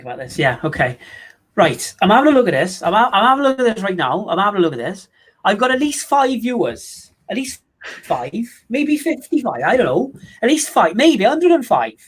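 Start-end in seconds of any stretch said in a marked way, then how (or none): 1.6-11.9 mock Russian accent, showing off to viewers; a lightly put-on comic Russian accent, pitched up. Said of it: "one of your wonderful accents".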